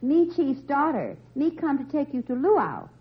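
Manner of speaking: very high, loud falsetto maiden; shrill-free high comic falsetto, slow; high falsetto girl voice. Acted. Chief's daughter speaks.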